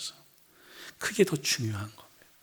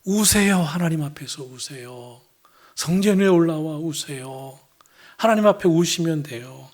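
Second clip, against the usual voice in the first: revival preacher; 3 semitones higher, 6 dB louder than usual. Retold or imitated. Revival preacher urging the congregation to weep, raised exhortation. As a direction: urge them to weep like an old revival preacher. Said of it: "부흥회 때 꼭 듣던 말씀이 뭐냐면".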